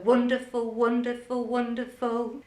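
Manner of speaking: wonderful counted in even triplets, stress on the W; rhythmic counting. Shown as a demonstration. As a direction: chant wonderful evenly, one beat each. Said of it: "say the word wonderful to help them count".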